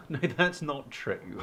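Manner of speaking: a nervous chuckle while denying it; laughing denial. Acted. Alex laughs off his friend's point, laughing. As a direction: laugh through the words, brushing it off.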